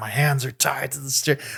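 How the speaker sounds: mock exasperated, soft, fed-up, frustrated voice. Retelling a movie scene where a man tied to a steering wheel protests, acting frustrated. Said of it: "like all frustrated".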